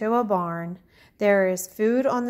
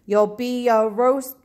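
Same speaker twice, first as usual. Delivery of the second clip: angry shout; 3 semitones higher, 5 dB louder than usual. Acted. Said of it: "with an angry shout".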